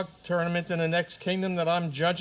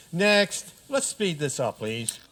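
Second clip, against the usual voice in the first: impatient call; 2 semitones higher, 3 dB louder than usual. Acted. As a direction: hurry the line along. Impatient king calls next petitioner.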